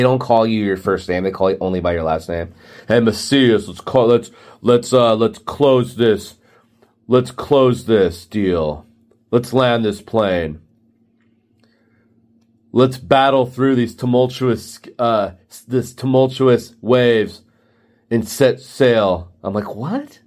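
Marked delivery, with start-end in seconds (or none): 2.9-19.3 lightly voiced boss, slow and deliberate; a hint of a manager rallying with jargon; corporate boss. Boss urging staff to close, mildly mocked slow delivery. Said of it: "my boss would be like". 19.7-20.2 high, soft mock bewilderment; baffled. Employee hears nautical jargon, softly incredulous.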